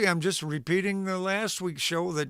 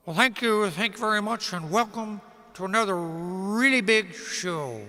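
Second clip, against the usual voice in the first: a hint of a fifties variety show host welcoming the audience; mild Ed Sullivan take, mostly own voice; Ed Sullivan impression; 2 semitones higher than usual. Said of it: "not a very good impression of Ed Sullivan".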